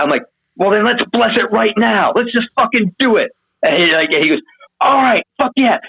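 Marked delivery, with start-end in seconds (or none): 0.6-3.3 higher, pushy retold push to just do it; mock-eager let's-go; eager urging. Urging friend to bless now. 4.8-5.8 high, cracking retold cheer; half-shouted stoked yes; excited whoop. Friend agrees to blessing excitedly.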